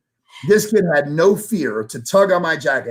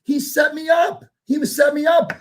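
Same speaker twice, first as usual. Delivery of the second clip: squeaky laughing disbelief, much higher; 10 semitones higher than usual. Real, not acted. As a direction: laugh through the words at being conned. Laughing at being hustled.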